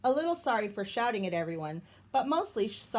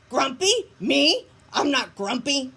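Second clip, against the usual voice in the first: louder, high-pitched protest; indignant denial; 5 semitones higher, 8 dB louder than usual. Acted. Jim denying grumpiness after tripping, louder and indignant. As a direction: bristle and deny it loudly.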